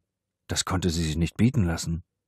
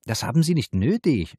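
firm; 7 semitones higher, 4 dB louder than usual. A narrator's reading. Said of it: "sagte die Adjutantin entschieden".

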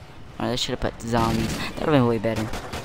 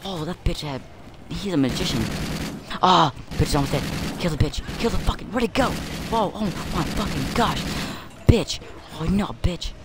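frantic gaming rage; 6 semitones higher than usual. Real, not acted. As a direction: yell through a tense fight. Frantic boss fight.

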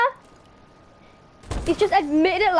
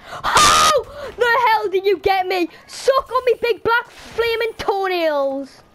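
slow, loud put-on taunting voice, higher; mock taunt; 4 semitones higher, 3 dB louder, slower than usual. Trash-talking the player who killed him in a goofy voice. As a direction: ham up a cartoon trash-talker, dragging it out.

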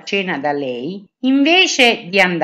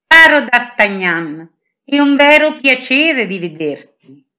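put-on glad, louder greeting of an old friend; joyful welcome; 5 semitones higher, 5 dB louder than usual. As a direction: welcome him with delight. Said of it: "mi accolse con gioia". (accoglienza gioiosa, più forte)

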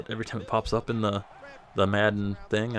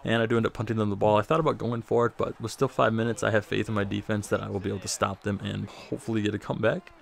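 breathless from talking fast; winded, gasping between phrases; out of breath. Real, not acted. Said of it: "I'm running out of breath here".

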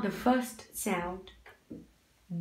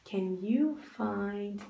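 slow teacher repeat; 3 dB quieter, slower than usual. Shown as a demonstration. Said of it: "repeated slowly to child".

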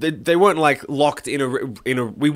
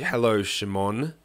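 teacher's greeting; 4 semitones lower, 5 dB quieter, slower than usual. Retold or imitated. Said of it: "I just remember the way he".

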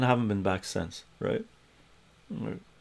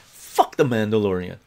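said loud; 4 dB louder than usual. Retold or imitated. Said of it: "And I said it loud".

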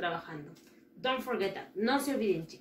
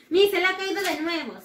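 student voice; 6 semitones higher, 5 dB louder, faster than usual. Pretend.

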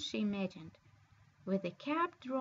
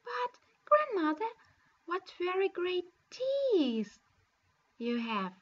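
put-on a little girl's rising alarm; 5 semitones higher, 4 dB louder than usual. Girl alarmed at the teeth.

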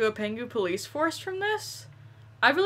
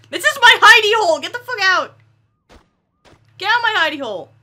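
playful shout; 8 semitones higher, 8 dB louder, faster than usual. Pretend. Shouting at NPCs in hiding spot.

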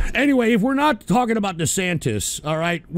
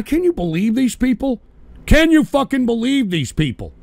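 angry rant; 3 semitones higher than usual. Real, not acted. Ranting at troll callers.

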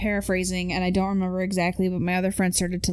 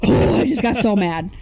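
laughing; 7 dB louder than usual. Real, not acted. Laughing at the story.

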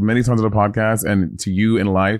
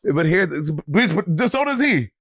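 laughing; 6 semitones higher, slower than usual. Real, not acted. Teasing laugh about the dog.

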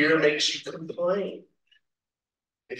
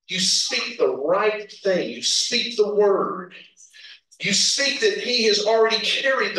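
declarative preaching; 3 semitones higher than usual. Real, not acted.

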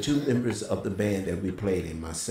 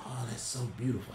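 weak, faint voice; 2 semitones higher, 9 dB quieter, faster than usual. Retold or imitated. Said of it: "He could barely speak".

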